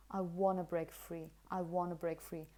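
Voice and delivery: "want to" merged into "wanna"; casual connected "wanna"; wanna reduction. Shown as a demonstration. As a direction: drop the t, say "wanna" in one run. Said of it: "pronunciation is actually something like wanna".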